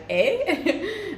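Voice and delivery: high, questioning Canadian "eh". Retold or imitated. Streamer showing a word picked up in Canada, imitated Canadian "eh". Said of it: "when I was in Ca-, Canada, I was like".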